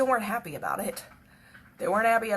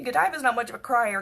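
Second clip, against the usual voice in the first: normal talking voice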